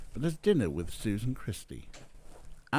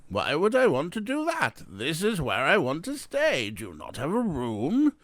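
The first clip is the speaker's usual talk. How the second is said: put-on louder, higher, indignant foreign-accented guest; Eric Weiss, heavy accent; 5 semitones higher, 5 dB louder than usual. A narrator's reading. Guest insisting on staying at this hotel, heavy accent. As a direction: protest in a thick foreign accent. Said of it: "Oh, a heavy accent".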